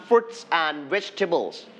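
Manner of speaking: slow "Fruits" with R after F; R sound included. Shown as a demonstration. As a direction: model "Fruits and vegetables" slowly, R in "Fruits". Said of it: "You need to have R sounds inside the words". (ออกเสียง R ใน "Fruits" ช้า ๆ)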